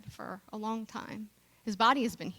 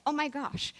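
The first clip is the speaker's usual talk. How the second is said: frantic self-scolding; 2 semitones higher than usual. Retold or imitated. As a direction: replay the panicked voice in your head berating yourself. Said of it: "I start shooting on myself".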